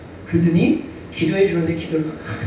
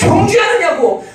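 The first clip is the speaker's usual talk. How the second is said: shouted complaint; 10 semitones higher, slower than usual. Acted. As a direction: shout 정죄하느냐고 out slowly. Mocking critics' complaint, shouted.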